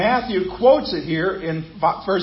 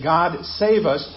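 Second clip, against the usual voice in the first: slow prayer; slower than usual. Shown as a demonstration. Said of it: "to say".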